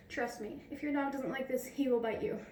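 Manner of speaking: slightly winded while talking; out of breath. Real, not acted. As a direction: talk a little short of breath. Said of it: "Sorry, I'm out of breath".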